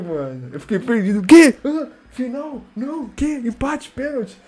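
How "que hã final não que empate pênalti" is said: high, puzzled questions one after another; baffled questions. Real, not acted. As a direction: ask like you can't follow what happened. Confused about the match rules. (perguntas confusas e agudas)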